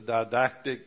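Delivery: careful, deliberate "didactic"; "didactic" measured out with care, firmer; said slowly. Real, not acted. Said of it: "I gotta say that word slowly".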